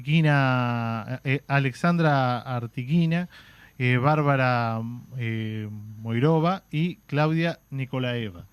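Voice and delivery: slow, careful attempt at Russian surnames; halting Russian pronunciation. Real, not acted. Host listing Russian women leaders' names, halting Russian pronunciation. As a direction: sound out each Russian name slowly, with hesitations. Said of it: "soy malísimo para pronunciar ruso".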